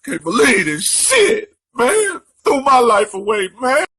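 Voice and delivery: screaming high and loud in a rage; unhinged furious rant, shouting at cheaters. Real, not acted. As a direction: yell it out, voice climbing out of control. Ranting after killing cheating girlfriend.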